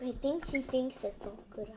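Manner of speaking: quiet whispered aside; whispering. Real, not acted. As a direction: hush it so nobody hears.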